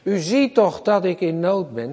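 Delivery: high, rising, anguished pleading; preacher voicing David begging God; begging plea. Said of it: "zo smeekt David".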